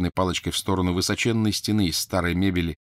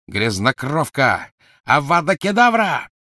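killing curse; 8 semitones higher, 6 dB louder, slower than usual. Acted. Crabbe curses Hermione.

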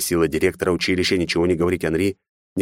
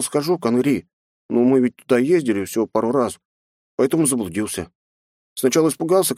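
put-on high chatty boy; child's voice; 6 semitones higher than usual. A narrator's reading. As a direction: tell it like a kid. Boy tells his story. (детский голос)

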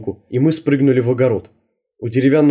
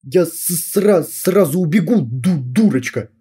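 заикаясь; 4 semitones higher, slower than usual. Acted. Юрка заикается.

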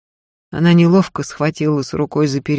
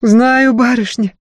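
passionate assurance; 8 semitones higher, 7 dB louder, slower than usual. Acted. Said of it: "страстно заверила Марфа".

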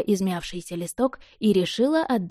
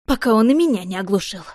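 louder shout over ringing; shouting over noise; 2 semitones higher, 5 dB louder than usual. Acted. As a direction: yell above the ringing bell. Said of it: "стараясь перекричать трезвон". (громко, перекрикивая звон)

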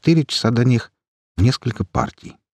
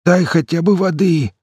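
raised, hoarse begging; hoarse plea; 10 semitones higher than usual. Acted. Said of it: "Кто-то, охрипший". (хриплая мольба)

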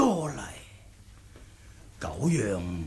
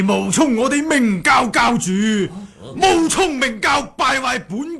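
high, raised reproach; angry accusation; 5 semitones higher than usual. Acted. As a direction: scold the impostors hotly. Accusing impostors of defaming sect. (高声怒斥)

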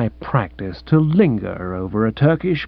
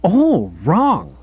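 dismissive verdict; 3 semitones higher than usual. Acted. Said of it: "curling and clicking freely".

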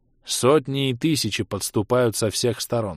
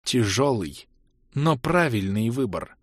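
grating voice; slower than usual. Acted. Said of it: "проскрежетал голос Мирты".

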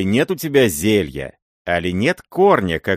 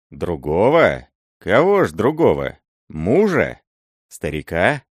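louder scornful questions; scornful surprise; 4 dB louder than usual. Acted. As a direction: toss the questions back, stunned.

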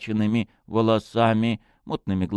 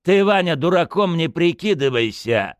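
loud, high cutting reprimand; sharp rebuke; 10 semitones higher, 5 dB louder than usual. Acted. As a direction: cut the lad down sharply. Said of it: "резко осадил парня Орлов".

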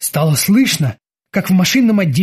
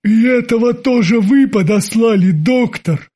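dejected; 5 semitones higher than usual. A narrator's reading. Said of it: "удручённо спросил он".

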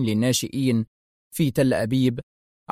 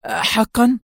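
high, surprised little exclamation; exclaiming; 8 semitones higher, 3 dB louder, much slower than usual. A narrator's reading. Secretary reacts to the intruder's denial, exclaiming. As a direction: blurt it out in surprise. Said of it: "هتفت السكرتيرة".

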